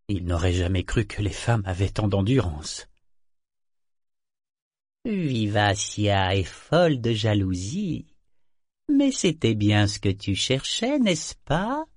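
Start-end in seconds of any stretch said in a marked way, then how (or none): 5.1-11.8 amulette moqueuse. Acted. L'amulette parle à Kénit.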